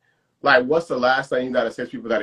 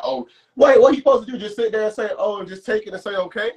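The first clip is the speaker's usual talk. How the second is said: higher, fired-up disbelief; exasperated rant; 7 semitones higher than usual. Real, not acted. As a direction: throw your hands up in outrage. Friend ranting about people getting mad.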